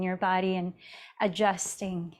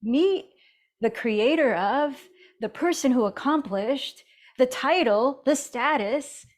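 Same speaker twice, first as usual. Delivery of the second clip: higher, louder mock introducer; imitating a showy introduction, pitched up; 4 semitones higher, 3 dB louder than usual. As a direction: introduce someone grandly, in playful imitation. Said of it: "how people are introduced".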